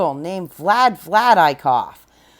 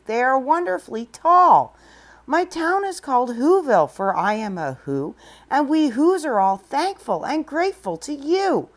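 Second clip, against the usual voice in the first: much higher piping reply; piping tiny voice; 4 semitones higher than usual. Acted. The Who mayor answering Horton, high and piping. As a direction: pipe it up like a speck-sized mayor. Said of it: "called the voice".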